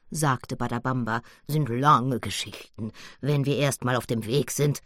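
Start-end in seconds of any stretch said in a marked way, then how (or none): 1.5-4.8 a wise gorilla holding back; gorilla's voice. Acted. Badabamba the gorilla speaks. (Badabamba, tief und langsam)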